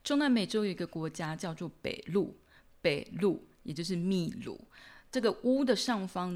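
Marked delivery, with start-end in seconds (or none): 2.8-3.5 北路 with the weight on 路; stress on second syllable. Shown as a demonstration. Teacher naming the country Peru, final-syllable stress on 北路. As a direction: punch 路, the last syllable of 北路. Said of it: "重音就落在有那一撇的音节".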